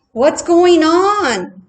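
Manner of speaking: high, loud and slow chirpy question; a small bird calling out eagerly; high meadowlark asking what's up; little bird voice. A narrator's reading. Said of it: "asked June".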